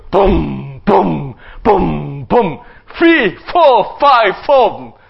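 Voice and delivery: low, heavy booming giant stomps; giant's booming steps. Acted. Preacher voicing Goliath stomping toward the camp, low and booming.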